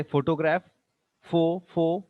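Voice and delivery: photograph stressed on the first syllable, then fo isolated. Shown as a demonstration. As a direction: lean on fo in photograph. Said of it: "put stress on fo".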